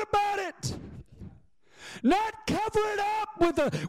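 high, driving pulpit preaching; full-force preaching. Real, not acted. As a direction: preach it hard, stretching the key words.

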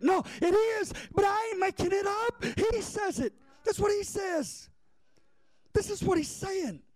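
high, strained insistence; emphatic preaching. Real, not acted.

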